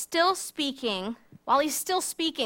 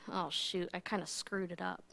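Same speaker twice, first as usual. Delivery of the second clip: soft, embarrassed mutter; sheepish Peter; 4 semitones lower, 11 dB quieter than usual. Retold or imitated. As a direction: admit it under your breath. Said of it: "Peter being like".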